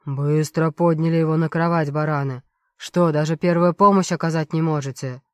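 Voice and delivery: angry doctor roaring at the guards; yelling doctor. Acted. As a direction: chew out the guards like a boss. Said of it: "орал на него примерно вот так же".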